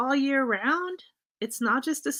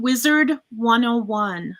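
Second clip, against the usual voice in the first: clear repeat; 4 dB louder than usual. Real, not acted. Repeats name when asked again.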